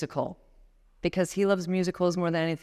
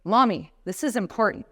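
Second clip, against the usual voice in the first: put-on insistent little boy; 4 semitones higher, 3 dB louder than usual. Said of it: "he's like".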